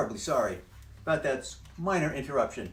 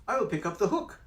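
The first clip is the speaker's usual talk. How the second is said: high cat voice saying hook; cat correcting himself; 9 semitones higher, 5 dB louder, faster than usual. Acted. Cat in the hat correcting himself, high. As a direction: fix the slip as the cat. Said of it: "The hook, book, you have to be careful".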